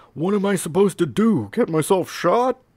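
shrill, scared, very high-pitched, loud, frightened. A toy fireman, frightened, asks what he is expected to do about an armed man; speak low and manly, frightened. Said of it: "whose vocation as a firefighter apparently made him no less of a coward. ... the fireman's voice was low and manly, but it squeaked high on the word gun to expose a decidedly unmanly terror".

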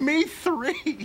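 high, sobbing voice, crying through every word. As someone says goodbye and leaves, chime in sobbing.

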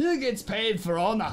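clumsy, bad put-on Scottish accent. Quoting the Scottish guy from Wonder Woman, bad Scottish accent. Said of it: "It's not a good accent because I don't do good accents".

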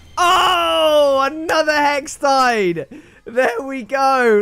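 high voice crack, drawn-out oh. Player reacting to getting another Hextide, voice cracking. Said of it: "The voice crack is real".

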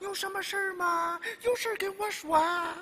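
put-on high, gushing official voice.

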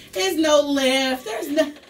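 high, loud, laughing and exasperated.

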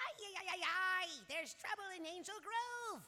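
loud, annoying, grating put-on character voice. Examining a little friend, then breaking into an annoying voice. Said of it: "Stop doing that annoying voice".

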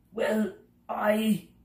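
high, halting, stumbling, stammering start. Pressed for names, a bug stammers in reply. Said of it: "stammered the bug".

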